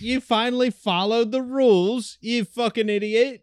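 high-pitched Aussie telling-off; mock Australian accent. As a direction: scold in a put-on Australian voice. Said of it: "how those people talk".

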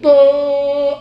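loud, held noisemaker "uh"; imitated party toot. Shown as a demonstration. Doctor retries the celebration noise, loud toot. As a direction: toot it out firmly like a party horn. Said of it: "Algo así, no sé".

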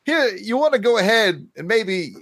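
Christopher Walken impression. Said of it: "the Christopher Walken voice pack".

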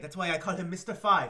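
hammed-up French accent on the line; a deliberately bad French accent. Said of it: "really bad French accent".

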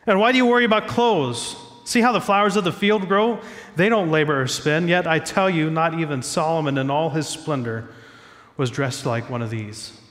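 normal talking voice

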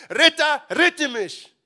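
loud high cry for rescue; desperate cry. Acted. Blind beggar crying out to Jesus as he passes, desperate. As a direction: call out to him as he passes.

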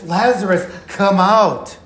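mild, firm summons; restrained calling out. Acted. Preacher repeating Jesus' call after a hushed wait, restrained calling out. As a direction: call it out, holding back the volume. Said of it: "he cried out in a loud voice".

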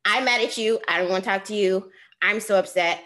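mock complaint that rattles on; bratty tantrum. Rejected applicant venting at God, mildly bratty tantrum. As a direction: rant like a put-out brat, lightly acted. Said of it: "full tantrum, full brat mode was on".

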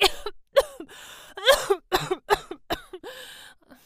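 loud hacking coughs; coughing fit. A narrator's reading. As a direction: cough hard and long. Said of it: "Ein Hustenanfall unterbrach Runda".

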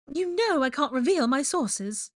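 high, slow put-on woman's voice; slow high-pitched character voice; coy reporter. A narrator's reading. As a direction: draw out a coy refusal. Rita, uneasy, refuses to name sources.

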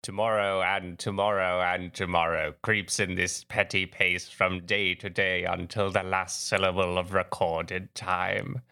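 measured Shakespearean actor's recital, slightly low; Patrick Stewart. Acted. Podcast host opens with Macbeth's soliloquy, lightly imitated classical actor. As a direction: deliver the soliloquy like a stage veteran. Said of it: "doing my, uh, Patrick Stewart".

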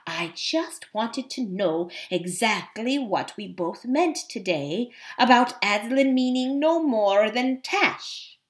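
smooth, lightly voiced cat; a touch of silky insinuation. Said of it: "in that silky voice of his".

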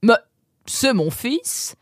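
high-pitched, drawn-out happy surprise; mock-amazed fatherly greeting; father's exclamation. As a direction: exclaim slowly as a delighted dad. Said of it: "s'exclama son papa".

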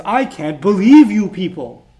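loud, drawn-out exasperation; slow, forceful incredulity; exasperated disbelief. Acted. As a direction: act fed up with the lot of them. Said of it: "the original sense of it is".

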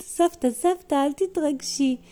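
put-on high-pitched child-character plea; concerned grandchild. Tami asking grandma not to get worked up, concerned.

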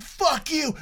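high retold curse; retold yell, high; mock furious driver. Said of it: "And he said".

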